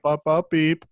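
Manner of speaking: mock censor beep; bleeped out. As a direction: sing out a playful bleep. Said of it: "I have to beep out so many slogans".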